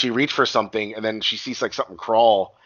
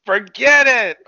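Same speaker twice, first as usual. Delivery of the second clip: infomercial pitchman; 12 semitones higher, 9 dB louder, much slower than usual. Retold or imitated. Mimicking infomercial catchphrase.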